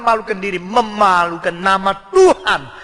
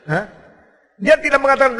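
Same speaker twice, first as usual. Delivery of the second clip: ordinary talk, nothing marked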